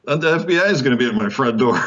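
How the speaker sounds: high, quick, laughing worry; mock alarm. Author afraid to message a general, laughing mock alarm. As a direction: rush it out in comic dread, breaking into laughter.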